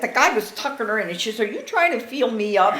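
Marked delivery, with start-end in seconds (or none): 1.4-2.8 laughing quote. Retold or imitated. Mother's joke, told laughing.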